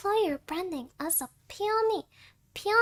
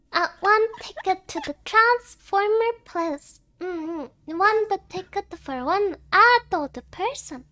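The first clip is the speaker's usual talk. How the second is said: put-on kid faking adult; 7 dB louder than usual. Acting out buying cinema ticket.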